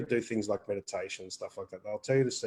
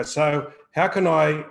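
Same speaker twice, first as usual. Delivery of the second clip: very slow, louder; 3 semitones higher, 7 dB louder, much slower than usual. Retold or imitated. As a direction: draw out slowly and louder, wondering aloud. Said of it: "they'll go".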